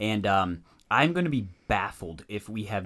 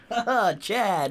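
mock bro voice; 11 semitones higher, 3 dB louder than usual. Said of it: "echoing the Chad voice".

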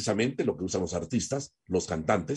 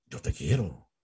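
lower-pitched, gentler declaration of love; tone demonstration; 4 semitones lower, 4 dB quieter than usual. Shown as a demonstration. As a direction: say it low, as if to a partner. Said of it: "la forma como decimos las cosas". (te quiero en tono grave y contenido)

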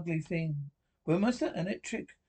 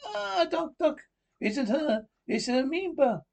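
alarmed cry; 9 semitones higher, 4 dB louder than usual. Acted. Levitsky discovers Esther is an amoeba.

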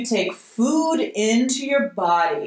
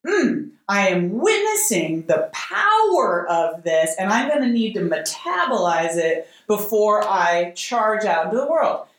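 calm self-regulation. Pretend. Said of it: "Self-regulation is".

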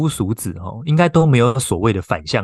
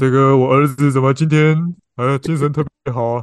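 parent voice; 3 semitones higher than usual. Acted.

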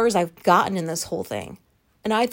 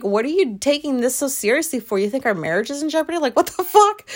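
laughing disbelief; 4 semitones higher than usual. Retold or imitated. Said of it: "I couldn't stop laughing".

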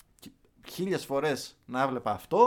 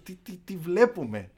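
higher, slower, stuttered cry of disbelief; retold amazed shout; 5 semitones higher, 5 dB louder, slower than usual. Fan to friends hugging after the goal, retold amazed shout. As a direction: imitate your own amazed yelling, louder. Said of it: "άρχισα να φωνάζω".

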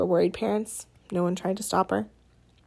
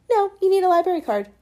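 gloating; 10 semitones higher, 4 dB louder, faster than usual. Acted. Amanda gloating, triumphant.

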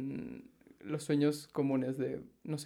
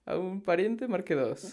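higher, sing-out menu option; automated bank menu; 4 semitones higher than usual. Acted. Joking to friend about dream sites, automated bank menu voice. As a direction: list options like a phone recording. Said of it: "al banco y te dice".

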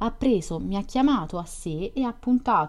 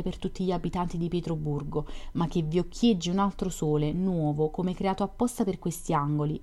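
mildly pedantic, serious recitation; pedantic, bookish. A narrator's reading. Beginning his tale to Nastenka beside him, pedantic and bookish. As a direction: tell it as if reading from a book. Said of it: "assunsi una posa pedantesca e seria".

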